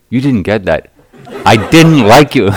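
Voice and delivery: put-on high, loud, laughing indignant child. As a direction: play the kid laughing, insisting.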